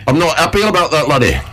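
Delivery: high, squeaky northern English puppet voice; a cheeky puppet monkey with a broad northern English accent. Pretend. Cheeky monkey puppet challenges the host, in a squeaky northern English accent. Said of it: "started speaking with northern accent".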